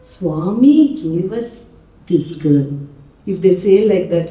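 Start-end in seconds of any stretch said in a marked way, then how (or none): 0.1-2.6 slow, happy delivery with a lift; happy intonation. Retold or imitated. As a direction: mimic someone pleased, drawing it out. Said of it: "how happy it is".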